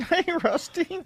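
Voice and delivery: high, slow greeting to a puppet; mock non-man voice. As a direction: coo it way up high, playfully. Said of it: "Let me give you my man voice".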